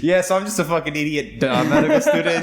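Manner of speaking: mock self-deprecation. Mocking self-deprecating student voice.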